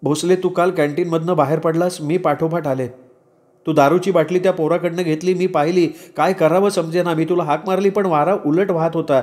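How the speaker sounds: put-on high, earnest young woman's account; Shahnaz. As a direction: explain yourself to the man you love. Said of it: "माझा हात हातात घेऊन शहनाज म्हणाली".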